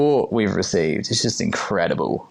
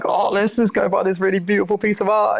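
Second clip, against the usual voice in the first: high, gushing retold excitement; sending up your own big idea; mock giddy enthusiasm; 11 semitones higher than usual. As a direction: pitch it up like a carried-away dreamer. Voices own carried-away idea, reined in.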